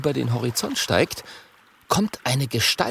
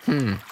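grumbling hum. Acted. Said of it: "brummt Kokosnuss".

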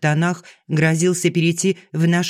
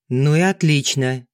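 harsh; 3 semitones lower than usual. Acted. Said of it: "неожиданно жёстко произнёс Артём".

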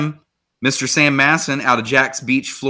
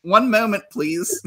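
high, dainty put-on voice; mock-feminine polite call; polite girls' reply; 7 semitones higher, slower than usual. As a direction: lilt it up high, then soften on the last word. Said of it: "All the girls are like".

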